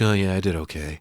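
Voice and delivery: casual mock-cool brush-off; acted-out offhand modesty; nonchalant. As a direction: play it down like it's nothing. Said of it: "tries to act all nonchalant about it".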